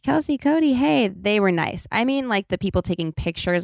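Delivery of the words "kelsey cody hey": higher-pitched friendly call-out; friendly fan greeting. Retold or imitated. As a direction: imitate friendly people calling your name. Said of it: "nice people who were like".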